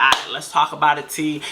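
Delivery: low, settled voice imitating a soother; calming. Friend calming her down when she acts crazy, retold calmly. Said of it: "he'll calm me down".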